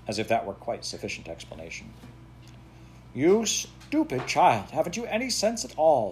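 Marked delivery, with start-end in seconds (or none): 3.1-6.1 higher, louder and slow, a harsh scold. Acted. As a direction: scold the child, dragging each word. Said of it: "scolded Daddy".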